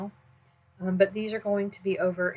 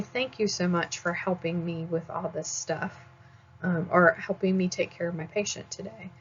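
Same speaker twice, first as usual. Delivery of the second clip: nice thank you. Shown as a demonstration. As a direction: say "Thank you" kindly and gratefully. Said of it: "which one sounds nicer, right? The first one".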